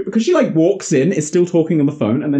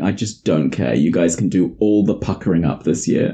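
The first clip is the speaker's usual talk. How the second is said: much lower, lazy, couldn't-care-less; 8 semitones lower than usual. Retold or imitated. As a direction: shrug it off, low and lazy. Jason voiced unbothered.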